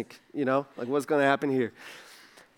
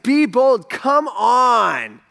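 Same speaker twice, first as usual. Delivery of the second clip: urging shout; 2 semitones higher, 4 dB louder, much slower than usual. Retold or imitated. Jesus urging boldness.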